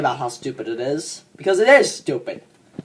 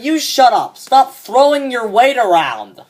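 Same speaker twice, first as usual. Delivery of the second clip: retorting comeback; 4 semitones higher, slower than usual. Retold or imitated. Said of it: "I looked at her and I said".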